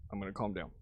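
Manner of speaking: deep, hushed self-soothing murmur; calming down. Real, not acted. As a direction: pull the voice right down to calm himself.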